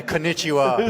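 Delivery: konnichiwa in a broad Australian accent; Australian-accented Japanese. Real, not acted. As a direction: say the Japanese greeting in full Aussie English sounds. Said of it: "with the most Australian accent ever".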